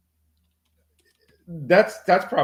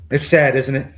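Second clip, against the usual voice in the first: Trump voice; 4 semitones higher, 8 dB louder than usual. Acted. Continues Trump-style riff.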